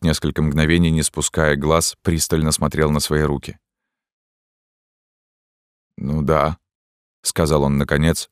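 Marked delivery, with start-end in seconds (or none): 6.0-6.6 strange meekness. A narrator's reading. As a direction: give in with odd gentleness. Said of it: "со странной кротостью". (священник кротко признаётся)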